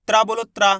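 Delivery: त्रा as t and r run together into one syllable; demonstrated conjunct sound. Shown as a demonstration. Teacher has learners repeat to learn pronunciation, demonstrated tra. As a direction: model त्रा crisply for repetition. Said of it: "पता पड़ जाएगा इसका उच्चारण".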